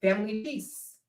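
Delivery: soft, hurt peace-seeking voice; quiet whiny fake calm; mock innocent victim. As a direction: play the wounded innocent. Imitated man plays victim again.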